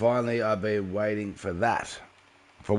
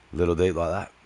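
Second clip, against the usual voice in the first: put-on deep voice; 3 semitones lower than usual. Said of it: "like the Mufasa voice".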